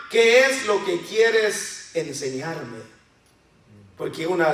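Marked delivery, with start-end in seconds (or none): 0.1-2.8 humble question. Shown as a demonstration. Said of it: "En vez de decir".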